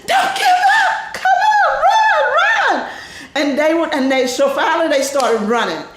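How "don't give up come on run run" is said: shouted high and loud, pushing the team; urgent shout. Retold or imitated. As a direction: yell at teammates to keep running. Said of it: "and I said".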